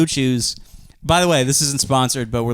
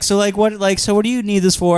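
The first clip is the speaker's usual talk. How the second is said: higher, lightly put-on questioner; imitated interviewer; 6 semitones higher than usual. Retelling the Zoom interview for pills, high interviewer voice. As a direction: pitch up as the interviewer.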